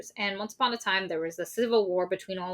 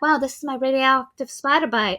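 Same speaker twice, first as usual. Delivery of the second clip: mock thrilled; 5 semitones higher, 4 dB louder than usual. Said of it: "Maggie's super pumped about this".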